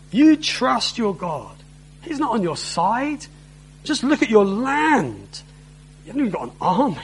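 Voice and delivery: mild scornful jeer at their faith; mocking. Envoy jeering at people trusting God, mildly mocking. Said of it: "it's mocking".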